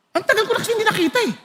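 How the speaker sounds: fast, laughing high. Real, not acted. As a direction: giggle through the words quickly. Laughing while retelling a meeting. (tumatawa habang nagkukuwento)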